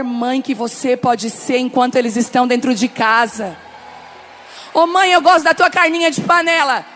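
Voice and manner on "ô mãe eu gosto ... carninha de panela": put-on louder, higher child's plea; lightly voiced child; child asking mum. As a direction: play the kid who loves mum's cooking. Voicing child asking mother.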